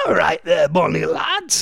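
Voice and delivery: shaky-aim Geordie imitation of the listener; attempted Geordie accent. Host reading out Alan's greeting, attempted Geordie accent. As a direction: have a clumsy go at a Geordie accent. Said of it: "I can't do his accent".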